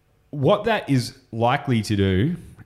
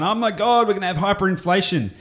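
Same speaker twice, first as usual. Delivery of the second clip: high-pitched imitation of public panic; mock freak-out; 9 semitones higher than usual. Imitating everyone freaking out over money printing, mock panicked. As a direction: mimic people panicking, pitch jumping up. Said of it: "everyone's freaking out and going".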